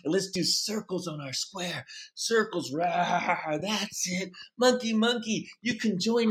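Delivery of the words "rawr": mild playful roar; understated mock roar; bear roar. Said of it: "You're like a bear".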